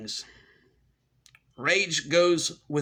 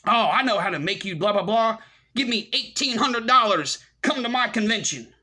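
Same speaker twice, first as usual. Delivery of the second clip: high, loud hammed-up hype; mocking sales pitch; 6 semitones higher, 4 dB louder than usual. Mocking a paid-convention seller, exaggerated pushy pitch. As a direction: holler it like a ridiculous huckster. Mocks hucksters selling conventions.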